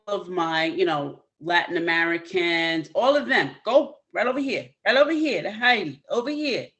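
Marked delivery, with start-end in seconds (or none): 2.9-6.7 higher, louder, rallying the audience over; excited calling out. Real, not acted. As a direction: wave everyone over to Heidi with energy. Host calls audience to Heidi.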